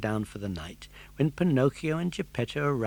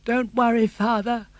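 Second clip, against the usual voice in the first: gasped; 10 semitones higher, 7 dB louder than usual. Acted. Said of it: "gasped Pinocchio".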